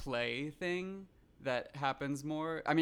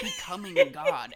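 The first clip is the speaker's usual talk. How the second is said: squeaky high, slow mock awe; mock grandiose; 10 dB louder, slower than usual. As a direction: inflate it absurdly. Mocking men's grand talk.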